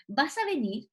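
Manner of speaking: VAS A VENIR asked with the pitch lifted on VENIR; question intonation. Shown as a demonstration. Teacher demonstrating question prosody to students, VAS A VENIR as a question. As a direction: make VAS A VENIR clearly a question by its tune. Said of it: "esa es una prosodia que marca pregunta".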